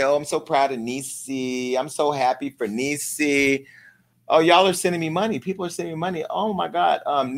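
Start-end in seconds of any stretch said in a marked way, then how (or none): 0.0-3.7 slow, soft mock gush; gushing fans. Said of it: "everybody's all excited ... and say".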